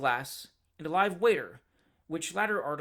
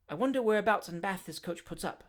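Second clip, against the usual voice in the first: mildly; 3 semitones higher than usual. Acted. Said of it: "said Mister Pickwick mildly".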